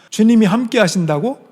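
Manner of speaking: high, loud excited disbelief; rising courage. Acted. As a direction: burst out with new courage. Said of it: "힘을 냈어요".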